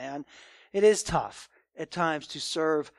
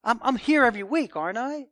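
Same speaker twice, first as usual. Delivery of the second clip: defensive surprise; 4 semitones higher, 5 dB louder than usual. Retold or imitated. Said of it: "They kind of act surprised and kind of push back".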